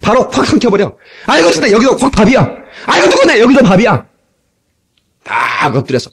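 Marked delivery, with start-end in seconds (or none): 1.3-1.7 high-pitched mock cry of dread; hammed-up panicked lament; timid person's wail. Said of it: "소심한 사람들은". 2.9-3.4 high-pitched mock cry of dread; hammed-up panicked lament; timid person's wail. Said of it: "소심한 사람들은".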